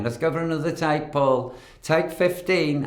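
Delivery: high, brisk director's call; imitated director. Retelling the director calling another take, high and brisk.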